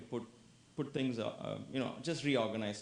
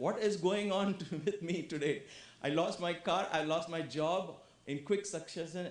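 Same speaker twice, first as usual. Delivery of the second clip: mildly exasperated, slightly raised voice; losing cool; 4 semitones higher than usual. Acted. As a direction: act out a touch of exasperation. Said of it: "you would have lost your cool".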